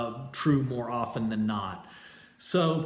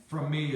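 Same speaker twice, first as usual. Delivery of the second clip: "from" strong and "me" weaker, a falling foot; trochee stress. Shown as a demonstration. Teacher shows the students the trochee, strong then weak. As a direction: stress from, let me fall away. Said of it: "is a trochee".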